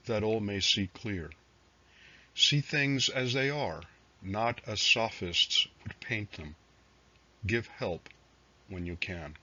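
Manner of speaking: measured recital with pauses between phrases; poetry reading. Acted. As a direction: read it as verse, letting each line settle. Reads own poems aloud.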